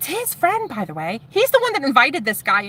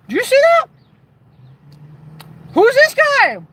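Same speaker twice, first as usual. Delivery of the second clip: high, loud gossiping squeal; gossipy onlooker; 6 dB louder than usual. Retold or imitated. Group member gossiping about the new guy, high gossipy squeal.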